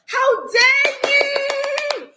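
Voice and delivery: indignant. Real, not acted. Fuming at being kicked out.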